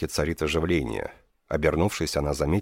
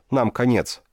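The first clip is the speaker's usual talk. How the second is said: higher, louder panicked cry; gasping alarm, higher and louder; 8 semitones higher, 5 dB louder than usual. A narrator's reading. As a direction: rider bursts in with terrible news. Panicked rider arrives.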